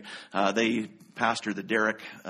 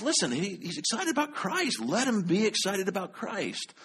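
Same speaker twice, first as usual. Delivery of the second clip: retold defense; 8 semitones higher than usual. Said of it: "And I finally says".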